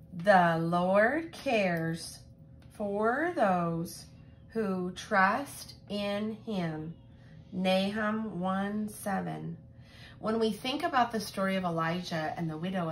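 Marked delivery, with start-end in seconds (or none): 0.1-9.6 slow, even recital, word by word; memory verse recital. Shown as a demonstration. Teacher leading children in their memory verse, slow recital. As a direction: say it slowly so the kids can follow. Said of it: "Let's say our memory verse".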